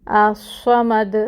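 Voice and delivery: slow, stretched Quranic recitation of الصمد; drawn-out recitation. Shown as a demonstration. Teacher demonstrating Quranic recitation, slow and stretched. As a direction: recite الصمد slowly and fully.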